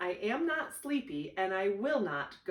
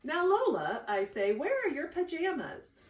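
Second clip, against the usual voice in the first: much higher and louder, mock stern; a patient brother losing patience; big brother hunting for pajamas; exasperated big brother; 8 semitones higher, 3 dB louder than usual. Brother scolding gently.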